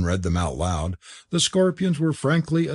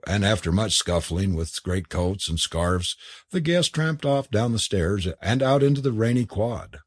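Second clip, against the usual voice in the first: usual speaking voice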